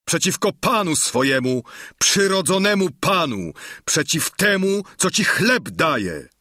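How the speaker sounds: offended master, pitch climbing; indignant outcry. A narrator's reading. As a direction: protest the betrayal with rising outrage. Master pinned by rebelling servant.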